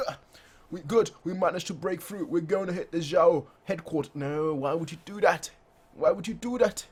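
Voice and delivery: high-pitched excited soldiers; high-pitched mock cheer. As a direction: push up into a thin excited voice. Voicing soldiers breaking through.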